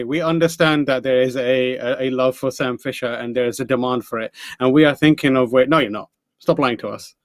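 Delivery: mock French accent. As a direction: put on a light French accent. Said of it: "in a French accent".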